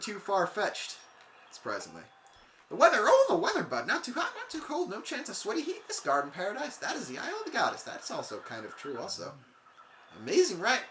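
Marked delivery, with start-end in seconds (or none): 2.7-7.8 high, excited surfer dude. Acted. Voicing excited Goron NPC. 10.2-10.8 high, excited surfer dude. Acted. Voicing excited Goron NPC.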